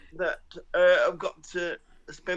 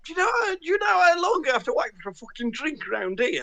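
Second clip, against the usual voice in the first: mock diva demand; 9 semitones higher than usual. Mock diva complaint in pub.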